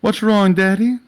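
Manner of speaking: loud, high-pitched teasing question; mocking taunt. Auburn taunting drugged Sebastian at the urinal, mocking concern.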